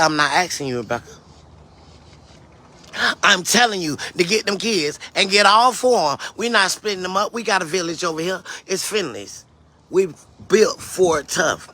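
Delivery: firm retold mother's order; means business. Mother ordering her daughter to take the kids, meaning business. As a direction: lay down the law as a no-nonsense mother. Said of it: "she meant business".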